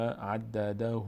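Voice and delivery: عدده slowly, ending in a long "hu"; voiced final u. Shown as a demonstration. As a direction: finish عدده as "addadahuu". («عدده» با صدای «او» در آخر)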